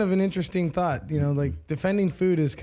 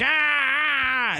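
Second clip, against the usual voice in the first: long higher-pitched "aah"; mock drawn-out wail; 6 semitones higher than usual. Imitating Andy at the dining table, long mock wail. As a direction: imitate a long open moan. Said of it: "Just like".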